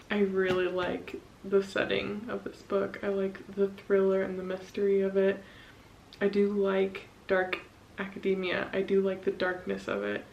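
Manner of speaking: slight mouthguard lisp; talking with a mouthguard in; wearing a mouthguard. Real, not acted. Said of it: "I have my mouth guard in already".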